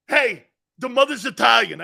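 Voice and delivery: high, loud mock amazement; excited grandfather. Grandfather announcing the mother's heritage, excited. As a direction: call it out like a delighted fan.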